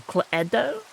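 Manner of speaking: Cluedo tried as klay-doh with a rising question; asking back Cluedo as klay-doh. Shown as a demonstration. Echoing the chat's Cluedo as a question. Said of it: "You say".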